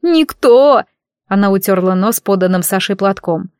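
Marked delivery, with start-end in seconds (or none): 0.0-0.8 high, loud teary snap; tearful outburst. Acted. Madina answering her friends tearfully. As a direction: fire it back through tears.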